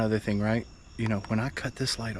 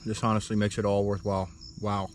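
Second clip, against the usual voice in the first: mouth full. Real, not acted. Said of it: "I'm sorry if I'm slurping".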